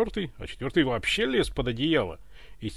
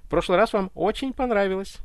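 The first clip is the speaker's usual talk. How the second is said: puzzled servant explaining; 5 semitones higher than usual. Acted. Baffled butler explains himself to tsar.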